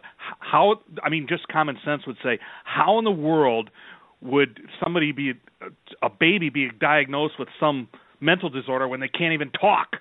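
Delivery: real anger rising in the voice, leaning on the key words; indignant anger. Real, not acted. Host appalled that a baby gets diagnosed, angry. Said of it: "I can hear the anger in your voice".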